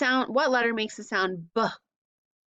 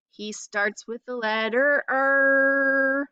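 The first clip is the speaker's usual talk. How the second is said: a hammed-up, higher and louder "er"; silly voice; 4 semitones higher, 4 dB louder, slower than usual. Miss Amy being silly with the Rudolph line, hammed-up. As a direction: ham it up for the kids. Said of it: "Miss Amy's a little silly today".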